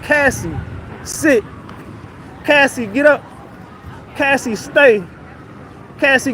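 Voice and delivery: short orders as if to a dog, pitched slightly up; mock-command someone like a pet, pausing between orders; retold bossy commands, one at a time; imitated dog commands. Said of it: "he gave her orders like a dog".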